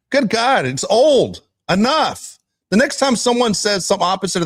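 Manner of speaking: fed-up outburst at the booth; exasperated rant. Real, not acted.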